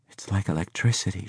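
soft, hushed narrated whisper. A narrator's reading. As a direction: say it softly, as if whispering. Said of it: "she whispered".

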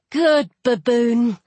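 slow, drawn-out praise; praising. Acted. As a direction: praise a pet, stretching the words. Sadie praises the baboon.

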